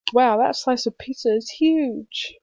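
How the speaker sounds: slow, loud amazed exclamation; excited wow. Shown as a demonstration. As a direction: marvel at the giant pizza slice. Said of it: "whoever said this sentence was really, really excited".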